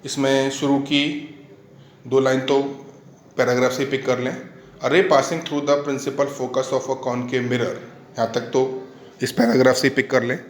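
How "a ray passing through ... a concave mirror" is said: slow, measured teacher's dictation. Real, not acted. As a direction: read out slowly for note-taking. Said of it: "मैं धीरे धीरे बोलता हूँ".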